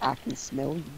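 breathy horror whisper; creepy whisper. Pretend. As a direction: hiss it like a ghost in the dark. Echoed in whisper.

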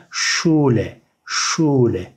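"Schule" said slowly as SHOO-le; German SCH as SH. Shown as a demonstration. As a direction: model "Schule" with sh and long u. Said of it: "Ş şeklinde okunuyor".

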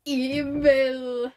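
lightly voiced cartoon line; SpongeBob quote. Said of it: "That's from SpongeBob".

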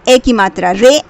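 syllable by syllable. Shown as a demonstration. Teacher to child, sounding out each syllable slowly. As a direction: break each word apart, slowly sounding out matra then word. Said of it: "तोड़ तोड़ कर पढ़ना है".

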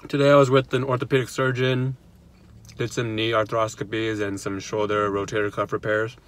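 talking through a mouthful of food; chewing while talking; mouth full. Real, not acted. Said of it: "I'm talking with my mouth full".

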